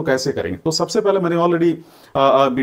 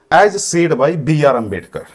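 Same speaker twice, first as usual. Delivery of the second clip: slow dictation; 5 dB louder, slower than usual. Shown as a demonstration. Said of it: "ये लिख सकते थे".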